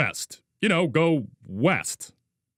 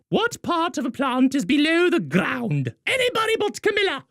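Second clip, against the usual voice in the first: teacher voice; 11 semitones higher than usual. Acted.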